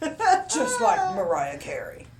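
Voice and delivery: laughing, slow and loud. Real, not acted. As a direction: say it while cracking up. Cracking up over diva joke.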